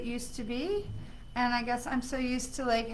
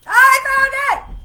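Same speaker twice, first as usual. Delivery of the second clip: high, loud, drawn-out cry of triumph; real victorious shout of relief; 17 dB louder, slower than usual. Real, not acted. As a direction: stretch it out slowly, thrilled and victorious.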